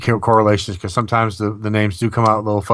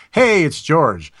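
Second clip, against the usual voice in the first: drawn-out, higher mock greeting; announcing himself; 5 semitones higher, much slower than usual. George greets the psychic in the morning, drawn-out announcement. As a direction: imitate a spirit cheerfully announcing himself, slowly.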